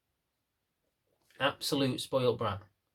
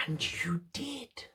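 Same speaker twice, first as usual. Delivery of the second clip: slow, hushed whispered punchline; 4 semitones higher, 9 dB quieter, much slower than usual. Acted. Trainer teasing viewers who gave the rude guest a beer, slow whisper. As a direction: let it land in a slow whisper.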